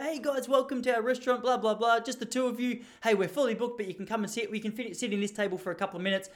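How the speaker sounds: imitating a friendly young waitress, voice pitched well up. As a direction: put on the chirpy waitress welcome. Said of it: "the little waitress came out".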